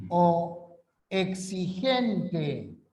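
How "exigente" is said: "exigente" stretched very slowly, e-xi-gen-te; very slow syllables. Shown as a demonstration. Teacher demonstrating syllable division to class, very slow. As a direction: spell it out in sound, beat by beat. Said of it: "Por eso".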